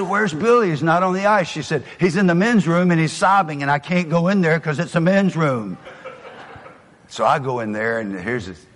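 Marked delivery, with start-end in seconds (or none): 0.0-1.5 high, loud alarmed call with a laugh; half-laughing panic about the missing boy; alarmed question. Retold or imitated. Father alarmed, asks wife. 2.0-5.8 high, loud, flustered report; frantic wife. Retold or imitated. Wife quoted, out of control.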